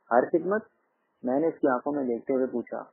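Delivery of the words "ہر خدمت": "ہر خدمت" echoed with a rising, higher end; "ہر خدمت" as a pointed echo question; probing question. A narrator's reading. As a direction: query "ہر خدمت" back, pitch climbing at the end. Narrator voices a probing echo question.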